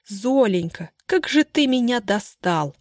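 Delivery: mocking mimic of her husband, slowing down; mocking imitation. The speaker mocking her husband's pleading voice. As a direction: parody his pleading, then snap. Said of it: "передразнила его Бажова".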